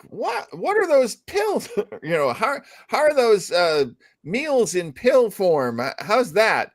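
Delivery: mock astronaut interview. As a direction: quiz the astronauts like a silly record. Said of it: "I just remember, like".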